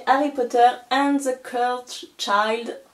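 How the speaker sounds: English title read with a strong French accent; a French speaker reading an English title, self-mocking. Real, not acted. A vlogger jokingly showing off her French accent in English. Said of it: "avec mon magnifique accent".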